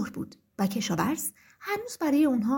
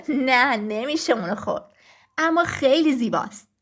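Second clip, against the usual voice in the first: lower, louder rooster voice; amused rooster; 3 semitones lower, 3 dB louder than usual. Acted. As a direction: rooster chuckling at the silly question. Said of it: "خروس خندید و گفت".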